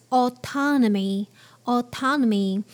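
"autonomy" with a British rounded aw start; British English. Shown as a demonstration. Teacher modelling British English autonomy. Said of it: "but in British English".

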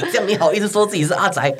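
high laughing mockery; laughing tease. Real, not acted. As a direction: tease them through laughter. Teasing fake otaku.

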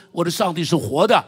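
大声宣告; loud proclamation. Retold or imitated. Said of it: "敢大声地说".

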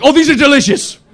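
high, loud mock delight through laughter; sarcastic delight. Brother finally eats a strawberry, high mock delight. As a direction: savour it with bitter irony.

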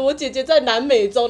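a laughing imitation of a choked sob; mock choked voice. To the hotline about her sister, hammed-up choked voice. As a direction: play at being too choked to speak. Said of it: "我就很哽咽地说".

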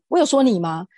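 shouting back at the groper at the night market; loud retort. Retold or imitated. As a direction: fire the question back loudly. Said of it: "我就大声的回答说".

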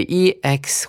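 ex said slowly as ig-z, voiced; sounded-out syllable. Shown as a demonstration. Teacher shows how E X is read in exhibit, slow phonics. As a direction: draw out ex with voiced g and z. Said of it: "所以E X会念成".

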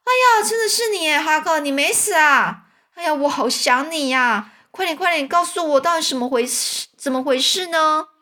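very high, loud astonished cry; surprised shout. A narrator's reading. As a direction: burst out in amazed joy. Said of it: "惊讶地大，大叫说". (汤姆惊讶地大叫，声音高而响)

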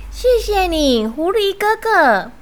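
high little-mouse voices; grateful little mice. Acted. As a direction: chirp thanks to a big brother. Little mice thank big brother fox.

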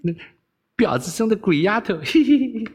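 high, mock scolding with giggles; mimicked cursing. Princess gleefully imitating how he curses her, mimicking. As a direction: copy someone's swearing playfully, up high. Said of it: "学着骂人的腔调".

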